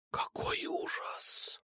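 slow, breathy mock-horrified whisper. Alfa pretends to be scared of him, whispering. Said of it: "прошептала Альфа".

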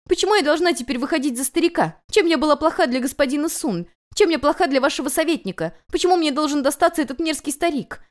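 high, loud tearful rant; desperate outburst. A narrator's reading. Runaway bride screams at the people she blames. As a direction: pour out all the outrage at once. Guest demands loudly, distraught.

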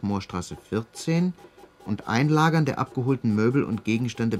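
dry, formal official read; formal report read aloud. Acted. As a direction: read the findings out flatly. Reads out police report.

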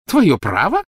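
high, loud, incredulous question; scornful snort. A narrator's reading. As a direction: throw the words back with contempt. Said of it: "фыркнула Белатриса". (презрительно фыркая, высоко)

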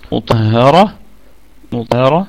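مطهرة recited with a rise; recited word. Shown as a demonstration. Teacher models مطهرة to the class, recitation. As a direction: recite مطهرة clearly in tajweed. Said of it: "لما نبتدئ على مطهرة".

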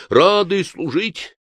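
slow, high, loud servile chorus; bow and bark it out eagerly; eager servants. A narrator's reading. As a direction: monks bow to the inquisitor, dutiful and loud. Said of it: "как бы говоря".

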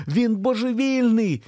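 high, slow desperate cry; frantic scream that he is crazy; shouted. A narrator's reading. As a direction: yell it right in his face. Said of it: "кричала вона в обличчя".

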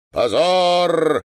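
loud, high, curt cry; brief outcry of condemnation; abrupt shout. A narrator's reading. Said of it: "отрывисто выкрикнул стоящий рядом старик-майор".

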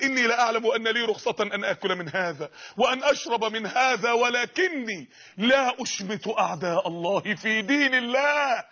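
slow, solemn classical Arabic, each word weighed; slow solemn quote. Acted. Captive answering the Roman king, slow and solemn. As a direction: proclaim it slowly and gravely.

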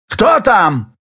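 hoarse. A narrator's reading. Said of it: "спросил он хриплым голосом".

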